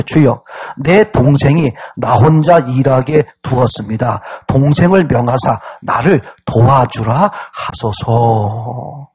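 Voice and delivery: measured Bible-reading cadence; scripture reading. Acted. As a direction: recite the plea solemnly, stretching the endings. Reads scripture aloud.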